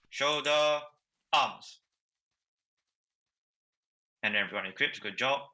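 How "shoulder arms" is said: drill command. Shown as a demonstration. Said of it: "I'm always going to drag out the middle".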